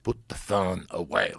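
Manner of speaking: slow mock German command, lightly accented. Retelling the German passenger's order, slow mock German accent. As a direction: imitate a stern German officer's accent, slowly. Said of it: "like a Nazi".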